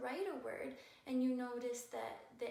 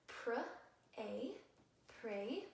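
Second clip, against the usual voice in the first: slow sounding out. Shown as a demonstration. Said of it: "we say them fast".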